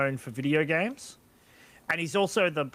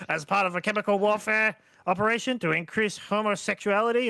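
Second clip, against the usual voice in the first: Alex Jones voice. Pretend. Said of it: "I'm trying to do the Alex Jones voice".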